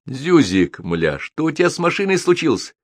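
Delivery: high-pitched berating yell; angry yell. A narrator's reading. Captain yelling at his hapless mechanic, angry and high. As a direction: yell at a useless subordinate. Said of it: "заорал он на незадачливого механика".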